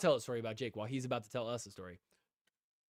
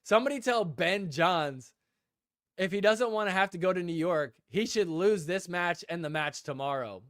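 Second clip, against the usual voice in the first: louder, higher mock heckling rant; the speaker going off; 4 semitones higher, 4 dB louder than usual. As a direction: sound off loudly like an opinionated spectator. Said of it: "just going off".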